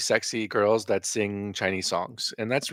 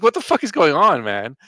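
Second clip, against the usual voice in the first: retold disbelief; 7 semitones higher, 6 dB louder than usual. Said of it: "I was like".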